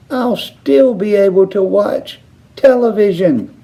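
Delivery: high little squeaky voice; the shrunken boy squeaking defiantly; tiny squeak. A narrator's reading. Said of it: "squeaked the tiny voice".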